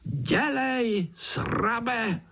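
very high wheezing taunt; high mocking insect jeer; fly groom hissing. A narrator's reading. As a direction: hiss the insult like a tiny fly. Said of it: "sýpal mušák".

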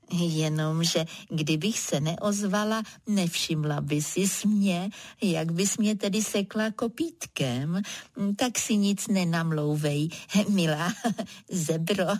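teasing with a chuckle at the end; mock the zebra with a small laugh; giggling. Tortoise teases the zebra, ending in a chuckle. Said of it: "uchychtla se želva".

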